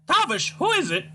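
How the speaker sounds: put-on high, wailing, scolding old mother voice; shrill old Scottish mum. Mother wails at son Tavish, high despairing scold. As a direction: play the despairing mother crying to the Lord. Mother calls from another room.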